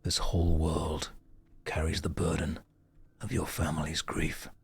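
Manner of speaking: quietly solemn, letting the words sink; Ben Starr voice. Retold or imitated. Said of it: "Ben Starr voice".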